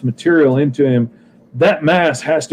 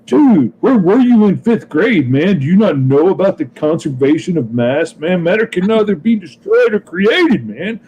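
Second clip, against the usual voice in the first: big gangster dude; 4 semitones higher than usual. Acted. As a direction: play the big tough guy explaining physics, amused. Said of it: "and he's like".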